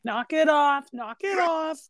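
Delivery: mildly heated comeback; irritated Vinny. Retold or imitated. Vinny quarrelling with his fiancee, mock irritation. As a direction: snap back at her in play.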